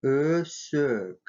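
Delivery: Өсөк with fronted, rounded ö in both syllables; soft rounded Ө. Shown as a demonstration. Teacher showing vowel harmony, Өсөк with two ö sounds. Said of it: "и влияет на последующий".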